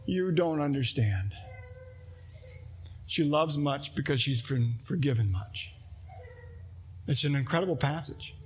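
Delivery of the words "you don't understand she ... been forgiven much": gentle Jesus. Retold or imitated. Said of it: "his response is".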